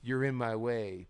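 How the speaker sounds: drawn-out mock-solemn line; imitating a slow promo; slow trash talk. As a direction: say it slowly with fake weight. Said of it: "slow talking back and forth".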